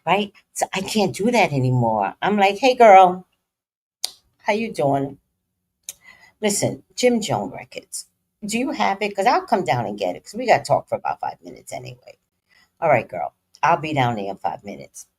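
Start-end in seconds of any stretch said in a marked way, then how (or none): 2.6-5.2 nice hood rat. Retold or imitated. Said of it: "And that's the nice hood rat". 6.4-8.1 nice hood rat. Retold or imitated. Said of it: "And that's the nice hood rat". 8.4-15.1 nice hood rat. Retold or imitated. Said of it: "And that's the nice hood rat".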